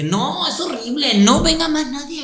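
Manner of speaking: half-laughing, playing the grouchy local; mock grumpy local. Joking to visitors, laughing mock grumble. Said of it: "Y dije".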